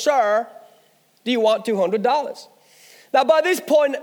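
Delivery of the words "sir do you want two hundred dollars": imitated American salesman, pause after "Sir"; amateur American accent. Salesman asks the honeymooner once more, imitated American accent. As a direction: put on a modest American accent. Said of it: "now forgive my American accent".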